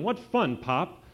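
high, loud joyful cry; gleeful yell. A narrator's reading. Puppy Howie calling Chester Pop, gleeful yell. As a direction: whoop from the bottom of a pile.

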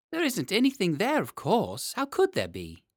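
high nervous wife; a little high and anxious, insisting. Acted. Wife speaks.

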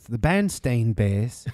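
"Bernstein" ending like "stain"; disputed pronunciation. Shown as a demonstration. Host bringing up a funny thing, "Bernstein" as BERN-stain.

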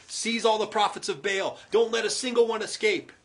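loud, firm order; commanding. Acted. Elijah ordering the people, a loud firm command. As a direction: order the seizure. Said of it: "Elijah commanded".

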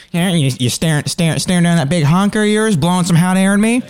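high, taunting tough guy; NPC challenge. Acted. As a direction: square up to him, high and cocky. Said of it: "he goes".

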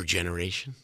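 rough gravelly rasp. Real, not acted. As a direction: push the words out with a gravelly rasp. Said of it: "It's like gravel voice again".

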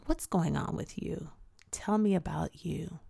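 gentle hushed question; soft counselor whisper. Retold or imitated. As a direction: lean in and ask softly. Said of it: "the counselor leaned in and asked me".

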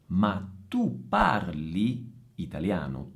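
"tu parli" slow, with "tu" stressed and the final i clear; stressed correction. Shown as a demonstration. Teacher correcting the learner's verb ending, slowly. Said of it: "non è tu parla".

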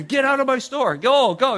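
loud, high, mock-furious yelling; angry shout. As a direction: shout them out of the store. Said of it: "He's so mad at them".

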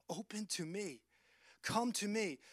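quiet, tender invitation; hushed voice at the door, inviting; soft plea. Acted. Voice standing at the door.

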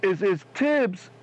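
choppy call audio; bad phone line cutting out; breaking up. Real, not acted. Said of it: "You're breaking up a little bit".

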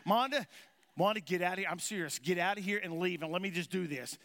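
an agitated husband yells at his wife to leave; agitated shout. Retold or imitated. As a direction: snap at her to get out. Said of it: "I said".

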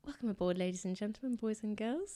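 lightly done pilot cabin announcement; a hint of airline PA voice; PA announcer voice. Shown as a demonstration. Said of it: "can you please do".

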